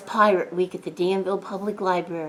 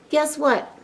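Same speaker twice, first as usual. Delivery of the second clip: excited; 7 semitones higher than usual. Real, not acted. Teasing reveal to kids.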